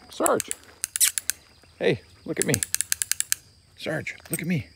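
very high sing-song call; calling the dog. Real, not acted. Trainer to distracted dog Sarge, very high call. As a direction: squeak his name way up to break his focus.

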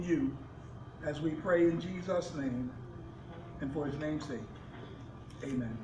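reverent prayer, low and hushed. Acted. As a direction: pray earnestly to Father God, gently. Opening prayer before the sermon.

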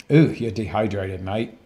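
imitated South African nurse; South African accent. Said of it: "she was from South Africa ... Love the accent".

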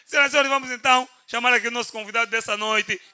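booming showman introduction; grand entrance announcement. Acted. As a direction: announce the star like a ringmaster. Host introduces guest on stage. (anúncio de entrada triunfal)

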